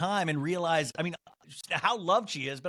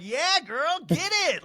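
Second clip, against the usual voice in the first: high, loud mock cheering; whooping crowd egging her on; encouraging cheer; 12 semitones higher, 5 dB louder, slower than usual. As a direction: imitate a fan hyping someone up. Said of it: "Like, encouraging you".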